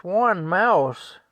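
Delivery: loud, high, incredulous retort; scornful outraged yell; yelling wife. Retold or imitated. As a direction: throw his words back at him, hollering. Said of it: "she yells at Frank".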